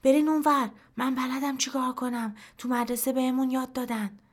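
put-on self-important boy putting on a big voice; boy's thickened voice. A narrator's reading. Farhad ordering everyone aside at the collapse, mock-manly voice. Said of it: "فرهاد صداشو کلفت کرد".

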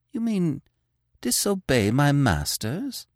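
high, slow, frightened question; shocked gasp. Acted. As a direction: gasp in disbelief. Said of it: "he gasped".

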